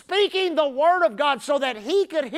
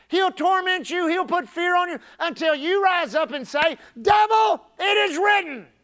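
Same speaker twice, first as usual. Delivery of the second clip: raised pitch, building to a shout; forceful preaching; 5 semitones higher, 4 dB louder than usual. Real, not acted. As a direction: hammer each line, then shout down the devil. Preacher at full force, rebuking devil.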